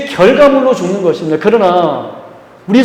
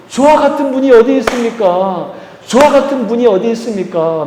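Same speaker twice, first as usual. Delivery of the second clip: higher, ringing cry of praise; exclaimed praise; 4 semitones higher than usual. Retold or imitated. Preacher echoing Israelites praising God after the Red Sea, exclaimed praise. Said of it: "찬양했던 것처럼".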